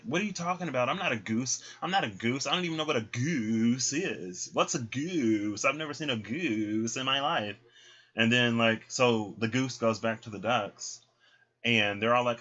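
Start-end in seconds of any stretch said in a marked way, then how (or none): 0.0-7.6 higher, baffled protest; flustered denial. Retold or imitated. The ugly duck denying being a goose, baffled. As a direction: protest in confused disbelief.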